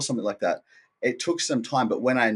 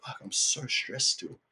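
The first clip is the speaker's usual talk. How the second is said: inner voice; 6 dB quieter than usual. Retold or imitated. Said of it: "I observed my mind and I'm like".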